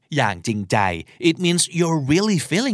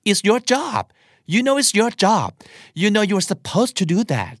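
high, pointed mock resentment; passive aggressive; 8 semitones higher, much slower than usual. Shown as a demonstration. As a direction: snipe at them while sounding polite. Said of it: "มันเป็นสิ่งที่เรียกว่า passive aggressive". (แซะแบบ passive aggressive เสียงสูง)

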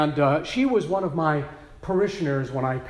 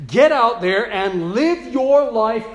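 louder, slow, higher urging; preaching exhortation; 4 semitones higher, 5 dB louder, slower than usual. Acted. Pastor summing up Luke's charge to the flock, loud and slow. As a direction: drive the charge home to the congregation. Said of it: "it might go like this".

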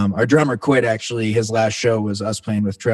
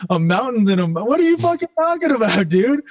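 baffled outburst; 9 semitones higher than usual. Retold or imitated. Telling Trev his mountain advice makes no sense, shouted in high disbelief. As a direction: squawk it back at a friend who just spoke in riddles. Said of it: "I was like".

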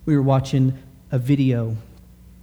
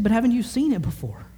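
put-on child's voice, higher; 6 semitones higher than usual. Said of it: "She said".

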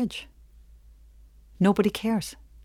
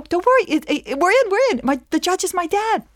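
very high, gleeful squeal; excited reassurance; 11 semitones higher than usual. Acted. Client tells lawyer the judge is dad, giddy. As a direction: burst out with giddy relief.

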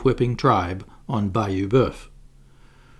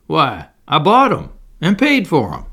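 a mild laughing reply; lightly chuckling through the words; amused, dismissive planter; 4 semitones higher, 5 dB louder than usual. Acted.

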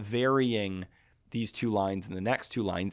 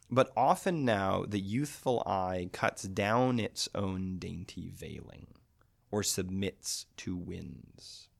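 slow poem reading; slower than usual. Acted. Reads the poem aloud slowly.

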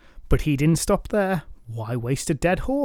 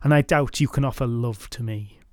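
put-on boastful drunk knight. Voiced at length.

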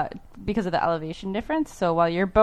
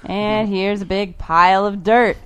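South Park tour guide; slower than usual. Retold or imitated. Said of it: "like, the South Park voice".

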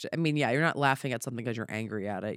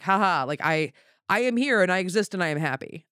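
higher, lightly joyful declaration; acted joy; 5 semitones higher, 4 dB louder than usual. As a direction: declare it like laughter put into words. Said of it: "I am full of joy".

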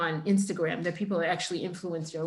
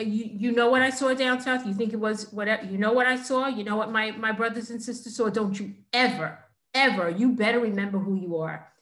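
imitating a father's heated lecture; angry father. Father warning his daughter after her misbehavior, mildly angry. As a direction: scold in insistent questions, mildly heated. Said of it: "He was so angry at me".

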